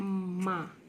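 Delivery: माँ slow, with held nasal sound; lengthened nasal माँ; chandrabindu nasal. Shown as a demonstration. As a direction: draw माँ out through the nose. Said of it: "माँ तो नहीं होता है".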